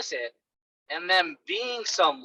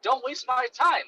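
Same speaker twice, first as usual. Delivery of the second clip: mock blunt; 5 semitones higher than usual. Shown as a demonstration. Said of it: "I don't say it, like, rudely".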